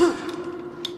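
quick gasp after an outburst; breathless little gasp; sharp gasp. Real, not acted. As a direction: suck in air sharply.

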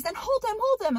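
high, loud panicked command; retold urgent shout. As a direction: yell it at the owners in panic. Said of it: "I said".

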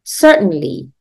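"Certainly" joined up as cert-n-ly; American muted T. Shown as a demonstration. Teacher putting the pieces together, "Certainly" with mute T. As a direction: swallow the T in "Certainly", straight into N. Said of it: "pronunciation which is like mute".

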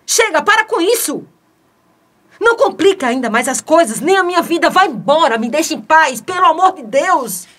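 sharp, rising plea to be left alone; exasperated, begging him to go; angry outburst. Acted. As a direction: push him away, upset and pleading. Hortência drives Eugênio away.

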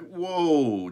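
long firm whoa; calling to horses. A narrator's reading. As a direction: call the horses to a stop. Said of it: "just as others do".

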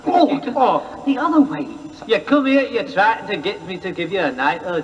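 bad Scottish accent; hammy Scottish prince scolding. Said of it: "the worst Scottish accent".

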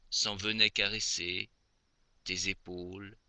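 measured, expressive poetry reading; poem recitation. Acted. Reciting Maupassant's poem to dear Aimée, poem recitation. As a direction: recite the verse in spaced phrases.

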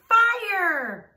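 loud, high energetic shout of the heading; exclaimed. Shown as a demonstration. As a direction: exclaim it with big classroom energy. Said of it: "we need to exclaim or say it with a lot of energy".

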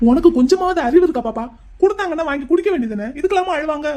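high-pitched, exasperated telling-off; scolding. Acted. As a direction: chide them for being so silly. Scolds girl for crying over milk.

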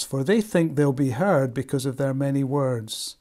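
measured, steady Bible reading; scripture reading. Acted. Preacher reads the Gospel aloud to the church, measured and steady. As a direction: read the words of Jesus to the congregation.

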